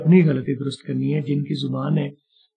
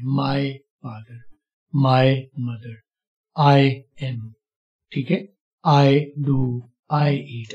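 each word said apart, very slowly; teacher reads word by word to learners; slow separate words; much slower than usual. Shown as a demonstration. Slow, careful word-by-word demo. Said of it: "अगर आप slow सुन रहे हैं".

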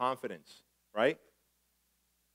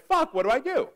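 high, loud mock-panicked outburst; retold panic; 12 semitones higher, 7 dB louder than usual. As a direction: act out being suddenly stuck and alarmed.

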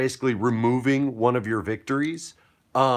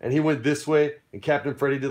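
ordinary delivery

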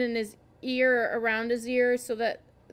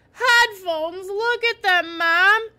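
high, loud outburst of indignation; loud, high-pitched angry protest; 8 semitones higher, 9 dB louder, much slower than usual. A narrator's reading. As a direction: throw it back at a parent in outrage. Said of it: "I said angrily".

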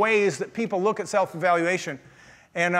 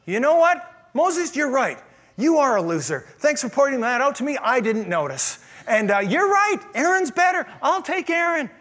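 mock agreeing God; 4 semitones higher than usual. Voicing God sarcastically agreeing.

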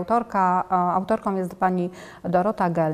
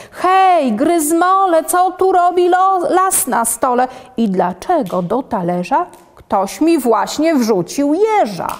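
much higher, louder outraged grandpa yell; grandpa shouting; 6 semitones higher, 3 dB louder than usual. Acted. Grandpa yells at the doodle about the forest on the table, loud and high. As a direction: bellow at the doodle like a startled old grandpa. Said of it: "Krzyczy dziadek".

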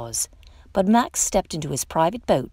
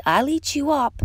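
a child's mock growl, pitched much higher; Max being a wild thing; 9 semitones higher than usual. A narrator's reading. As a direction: play the little monster threatening his mother. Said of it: "and Max said".

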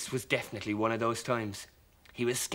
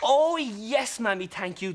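lightly voiced creature; 9 semitones higher, 5 dB louder, slower than usual. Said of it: "the little creature said back".

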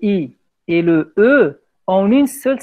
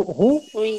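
slow model word; 3 semitones higher than usual. Shown as a demonstration. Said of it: "Routier, c'est bon".

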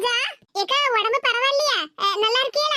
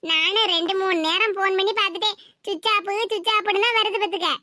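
put-on old mother; 4 semitones lower than usual. Old mother Parimala voiced.

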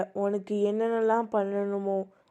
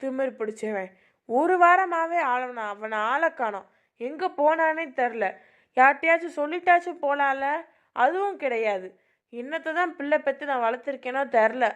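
angry mother; 5 semitones higher than usual. Acted. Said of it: "கோவப்படாத சாவித்ரி".

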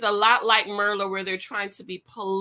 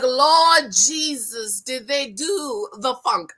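shocked; 3 dB louder, slower than usual. Retold or imitated. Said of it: "And I'm like".

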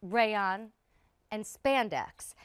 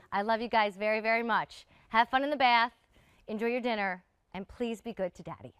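choking up; 5 dB louder than usual. Real, not acted. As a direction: voice tight with held-back tears. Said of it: "I don't know why I'm choking up".

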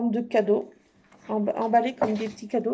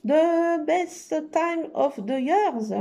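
slow, exaggerated British English accent; a French speaker hamming up a British accent; put-on British accent; 5 semitones higher, 3 dB louder, much slower than usual. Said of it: "L'accent so british". (accent britannique exagéré, lent)

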